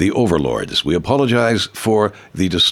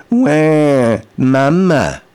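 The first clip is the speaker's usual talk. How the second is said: put-on louder, higher wail like a crying baby; 5 semitones higher, 3 dB louder, much slower than usual. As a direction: cry Wah, mama like an infant. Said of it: "In the right tonality".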